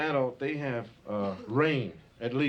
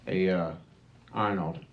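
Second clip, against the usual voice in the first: saber-toothed tigers gossiping. Acted. Comic tiger sounding off to another tiger, lightly voiced.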